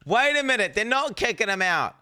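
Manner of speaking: high, loud burst of disbelief; sudden loud realisation. Acted. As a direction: cry it out like a shock discovery. Mock outburst as he realises.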